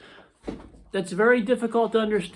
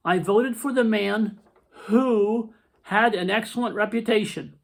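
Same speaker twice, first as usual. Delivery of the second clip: reading an example sentence. Shown as a demonstration. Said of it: "here's sentences".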